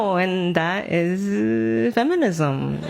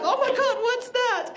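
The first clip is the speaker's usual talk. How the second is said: put-on startled baby; 13 semitones higher than usual. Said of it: "You're like".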